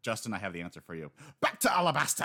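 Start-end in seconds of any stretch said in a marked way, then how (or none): 1.4-2.2 high, loud playful call; mock announcement. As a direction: call it out like a punchline. Joking callback, high and far.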